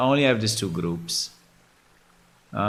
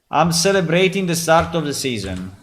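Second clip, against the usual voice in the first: excited pitch; 5 semitones higher, 5 dB louder, faster than usual. Acted. Announcing sale to other players.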